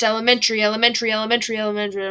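elementary rattled off quickly; elementary blurred at speed; fast, run together. Shown as a demonstration. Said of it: "But we go so fast".

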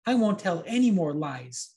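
put-on high, hesitant boy fibbing; nervous little liar; lying puppet boy. A narrator's reading. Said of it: "promised Pinocchio".

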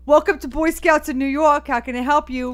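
loud New York phone greeting; brash New Yorker answering; New York accent. Acted. Boy Scouts office in New York greeting a caller, New York accent. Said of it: "You're a real New Yorker".

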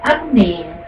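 high, dithering mock voice of a wishy-washy churchgoer; mocking impression of a hesitant pro-choice Christian; mocking waffler. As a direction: stammer it out like a spineless fence-sitter. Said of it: "That's how you say it".

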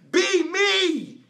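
God yelling at a stubborn believer, loud and high. Retold or imitated. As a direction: bellow it like an angry God. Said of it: "he yelled at me and said".

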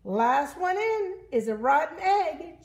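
high, loud little chick voice; excited high-pitched challenge; cheeping chick. Acted. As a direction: cheep out a playful dare. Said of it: "cheeped a chick".

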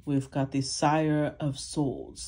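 slow, hammed-up English accent; mock English accent. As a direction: put on a jokey English accent for the card name. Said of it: "makes me do my English accent".

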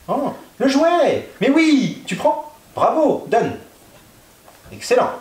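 high, delighted praise for the dog; excited dog praise. Real, not acted.

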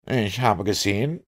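halting, effortful words; faltering stammer. A narrator's reading. Exhausted Conseil answers what he has seen, faltering stammer. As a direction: stammer lightly, as if short of strength. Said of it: "stammelte er".

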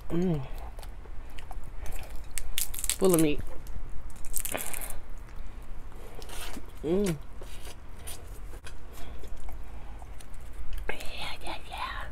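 speaking between bites; chewing while talking. Real, not acted. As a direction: mouth partly full of food. Seen 2: Peels crab, lips pressed as if chewing, then puts meat in mouth.

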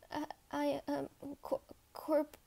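soft, broken false starts; confused stammer. Acted. Cadet lost for words at the confession, confused stammer. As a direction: falter and leave the word unfinished. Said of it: "so confused and didn't know".

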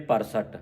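ਪਰਸਟ without the i and with s; misread vowel. Shown as a demonstration. Teacher quoting congregations' error, ਪਰਸਟ lacking its i. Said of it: "ਉਹ ਫਿਰ ਪਰਸਟ ਪੜ੍ਹ ਜਾਂਦੀਆਂ".

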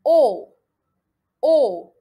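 "O" loud, long and falling, fully rounded; well-rounded O. Shown as a demonstration. Teacher drilling the fourth vowel, "O" loud and round. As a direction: round "O" firmly, never into ou. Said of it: "ندور bien le O".

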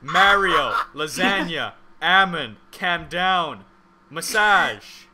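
showing off the Canadian way of saying each word; Canadian accent words. Shown as a demonstration. Friends asking, he reads out Canadian words in his accent. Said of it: "Let's just get this out of the way".

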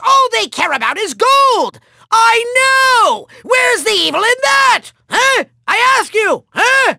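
high-pitched, exasperated villain outburst; indignant rant. Acted. Villain complaining about Doom Raiders, high indignant rant. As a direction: rail at them in high outrage.

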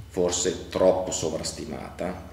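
slow, with troppo leaned on; stress on troppo. Real, not acted. Official criticising past forecasts, stressing troppo slowly. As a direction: weigh the word troppo, slowly and deliberately. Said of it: "e il troppo lo sottolineo".

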